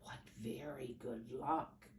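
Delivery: hushed storytime whisper. Acted. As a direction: whisper it so the children lean in. Building suspense for children.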